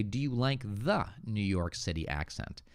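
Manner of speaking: "the" set out clearly before "New York City accent"; THE included. Shown as a demonstration. Teacher correcting a viewer's question, "the" clearly sounded. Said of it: "so here I would say".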